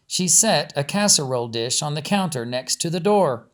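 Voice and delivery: steady storyteller reading a novel aloud; story narration. A narrator's reading. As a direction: tell it evenly, like reading a chapter to listeners.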